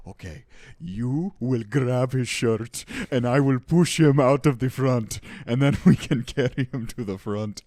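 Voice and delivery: high, loud conspiratorial plotting voice; scheming neighbour. Retold or imitated. Neighbour plotting to throw out the squatter, high and eager. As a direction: rope the listener into an eager little plot.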